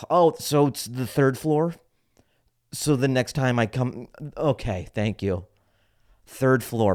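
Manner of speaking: overdone mock gratitude; fake appreciative. Customer thanking clerk for a return, fake appreciative. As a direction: pretend to be hugely thankful. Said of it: "pretend to be appreciative".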